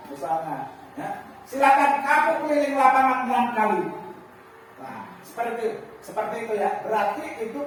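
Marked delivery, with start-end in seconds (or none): 1.5-3.8 loud, high, fast command; stern punishment order. Shown as a demonstration. Teacher orders a late pupil to run laps, loud and stern. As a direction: hand down the punishment firmly. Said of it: "nada suara tinggi".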